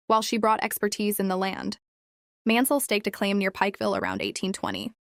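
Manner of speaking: flat, even monotone reading. Real, not acted. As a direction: read it in a monotone. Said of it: "My apologies for the monotone voice".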